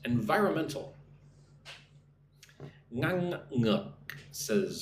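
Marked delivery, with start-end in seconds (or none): 0.1-0.9 Environmental said clearly, all five syllables; teacher models a five-syllable word. Shown as a demonstration. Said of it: "So five syllables".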